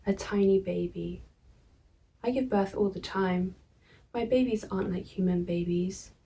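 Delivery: measured poem reading with pauses; poetry reading. Acted. Poet reading own verse to viewers, measured poetry reading. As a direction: read the verse evenly, pausing between phrases.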